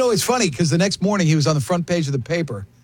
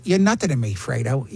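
restrained, dropping away at the end; cold mobster dismissal, retold; young Al Pacino; 4 semitones lower than usual. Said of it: "And I did that voice".

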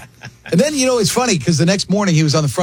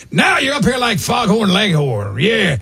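higher, slow shouted Pacino; Pacino impression; 4 semitones higher, slower than usual. Fan mocking Pacino to his face, shouted. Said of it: "And I did that voice".

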